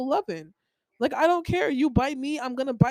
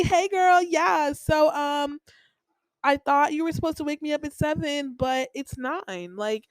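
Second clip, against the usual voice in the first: sweet friendly tone; 5 semitones higher than usual. Retold or imitated. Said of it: "you didn't say it like".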